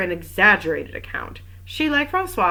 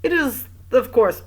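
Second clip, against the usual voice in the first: measured, smooth concession; smooth official, slightly raised voice; 5 semitones higher, 4 dB louder than usual. A narrator's reading. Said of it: "said the magistrate smoothly".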